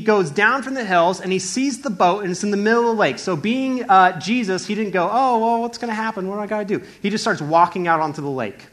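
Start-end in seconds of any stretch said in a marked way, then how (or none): 5.1-6.8 lightly flustered, higher voice; a touch of pretend panic; mock worry. Preacher acting out the fretting Jesus didn't do, mock worry.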